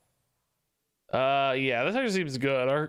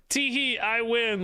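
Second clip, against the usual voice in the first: mock giggly taunt; 6 semitones higher, slower than usual. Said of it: "to come into the chat and say".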